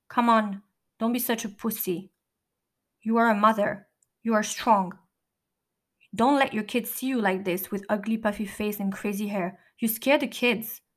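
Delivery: lightly imitating a Russian cellmate's accent. Cellmate scolding the narrator to stop crying, light Russian accent. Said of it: "with that Russian accent".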